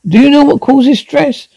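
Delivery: pressing high question; high angry repeat. Acted. Wife presses husband again, high and angry. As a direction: pitch it high, insistent.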